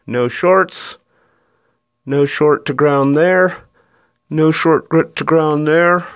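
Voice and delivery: phone held in mouth, words muffled; talking through clenched teeth. Real, not acted. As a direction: speak around an object between teeth. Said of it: "I'm holding the phone with my mouth".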